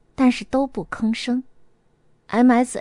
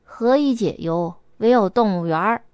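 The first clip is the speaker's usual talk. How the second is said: sighing; 3 semitones lower than usual. Acted. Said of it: "叹道".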